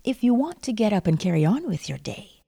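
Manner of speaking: usual speaking voice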